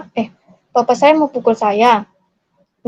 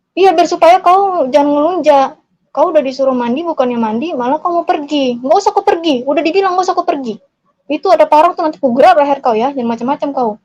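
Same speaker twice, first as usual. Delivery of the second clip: heated, higher-pitched scolding; imitated threatening father; 4 semitones higher than usual. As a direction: act out an angry dad laying down the law. Father threatens child in retelling.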